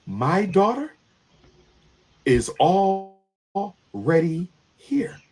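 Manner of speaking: whispered, drawn out; slow eerie whisper. Retold or imitated. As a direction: let it hang in a slow whisper. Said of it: "with no emotion at all".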